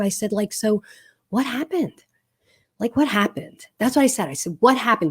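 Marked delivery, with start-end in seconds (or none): 0.5-3.7 soft, unhurried gentle asking; calm question. Retold or imitated. Mom asks her upset daughter what happened, calmly. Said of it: "I just calmly asked her". 4.6-5.1 mild, even-voiced question; calm tone. Shown as a demonstration. Mom shows how she asked her daughter, calmly. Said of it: "Did you hear my tone".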